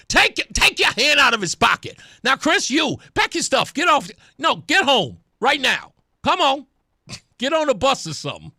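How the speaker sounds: exasperated, emphatic orders in short bursts; mock scolding. Host tells senator to pack up and go, mock bossy. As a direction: order them about with play impatience.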